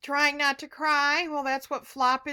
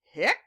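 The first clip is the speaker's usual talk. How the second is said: mock hiccup; 4 semitones lower than usual. Shown as a demonstration. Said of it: "see what the word is".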